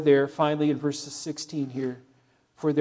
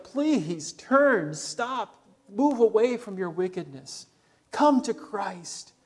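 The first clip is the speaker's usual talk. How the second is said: pleading brother; 2 semitones higher, slower than usual. Retold or imitated. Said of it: "from the heart of a brother".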